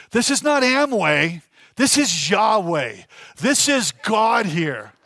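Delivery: slow, shouted declaration; preaching shout. Acted. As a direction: proclaim it slowly to the whole room. Preacher declaring God's power.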